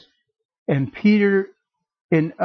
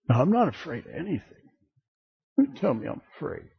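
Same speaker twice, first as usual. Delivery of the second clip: lightly voiced macho man, a touch of swagger; tough-guy bravado; 5 dB quieter, faster than usual. Men boasting to the congregation that they fear nothing, lightly mocking macho voice. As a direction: play a man who brags he fears nothing, half in jest. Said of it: "This goes to us men".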